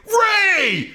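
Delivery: high yelled greeting with a laugh; mock shout. Kurt Russell spotting an old friend on set, laughing shout. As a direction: belt out the name like an old buddy. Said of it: "he's like".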